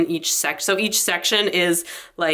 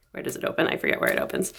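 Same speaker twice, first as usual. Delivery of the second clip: whispered aside; 6 dB quieter, faster than usual. Real, not acted. Muttering to herself while searching.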